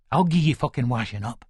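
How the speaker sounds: low, held-back menace; menacing threat. Acted. Husband turns to wife once kids leave, menacing.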